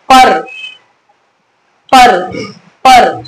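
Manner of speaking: "पर" with weight on प and a barely released र; stress before final र. Shown as a demonstration. Teacher showing an incomplete final vowel, stressed "पर". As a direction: press प in "पर", leave the final र short. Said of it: "जिसका अच्छे से उच्चारण नहीं हुआ".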